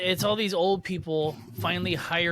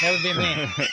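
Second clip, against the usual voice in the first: mock shout; 4 dB louder than usual. Imagining being called out.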